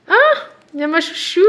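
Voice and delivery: petit cri ravi, beaucoup plus aigu et plus fort; s'exclamer, ravie de retrouver sa préférée; joie aiguë. Real, not acted. Découvre son sticker préféré. (elle découvre son sticker préféré avec un cri ravi)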